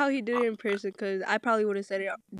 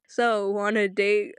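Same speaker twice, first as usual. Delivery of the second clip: slow, lightly voiced nervous boy; imitating a nervous nerd; much slower than usual. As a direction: mimic a shy pickup line, drawn out. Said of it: "he said it so nervously".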